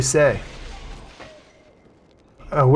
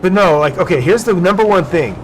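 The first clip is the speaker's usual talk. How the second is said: loud sharp voice; 4 semitones higher, 5 dB louder than usual. Real, not acted. Loud emphatic point.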